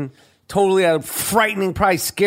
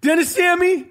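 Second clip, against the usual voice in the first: Danny Aiello impression; 9 semitones higher than usual. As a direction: play Danny Aiello chewing out tourists. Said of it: "I'm doing my Danny Aiello".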